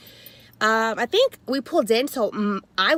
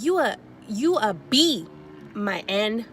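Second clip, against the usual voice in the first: mock angry rant; slower than usual. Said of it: "she just went off".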